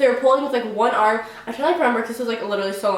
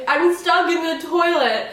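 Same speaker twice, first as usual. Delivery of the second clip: higher, slow retold yell broken by laughter; laughing through a mock scream; 6 semitones higher, slower than usual. Retelling shouting to the stewardess that she is stuck, laughing. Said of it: "I literally am screaming".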